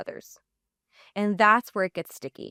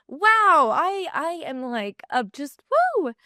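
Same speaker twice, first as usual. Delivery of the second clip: high, loud burst, then faltering; emotionally overwhelmed; 7 semitones higher, 5 dB louder, slower than usual. Real, not acted. Podcaster choked by thoughts of family time, overwhelmed. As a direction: fight tears with high, halting exclamations. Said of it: "This one really gets me".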